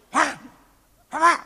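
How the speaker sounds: hammed-up woof woof; dog barking. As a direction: bark like a dog for the kid. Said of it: "爸爸给你叫了啊，".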